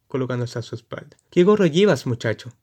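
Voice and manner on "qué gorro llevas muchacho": burla. Acted. Jorobado se burla.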